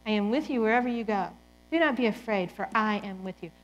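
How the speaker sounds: gentle reassurance. Acted. Quoting God's gentle words.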